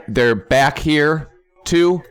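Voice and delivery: slow, stretched "too?" in mock disbelief; disbelieving question. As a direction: drag it out like you can't believe they're back. Finds them again, disbelieving.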